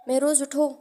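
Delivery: loud, high call to wake him; mother rousing her son with a loud call; urgent wake-up call. A narrator's reading. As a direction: shout him out of sleep.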